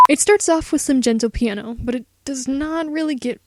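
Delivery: loud, stiff formal reading; formal no-contractions voice. Acted. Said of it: "I can't speak like this".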